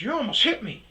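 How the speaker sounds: high, loud accusing yell; imitated driver's shout; retold shout. Other driver shouting back.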